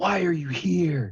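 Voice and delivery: high raspy shout. A character spits out his rat and questions the group: louder, raspy voice. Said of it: "his voice gets louder and he says".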